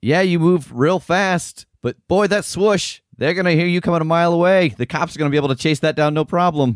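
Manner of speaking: very high, jeering, mocking taunting tone. Performing a line after being asked to make it more taunting: taunting. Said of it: "but more of a taunt".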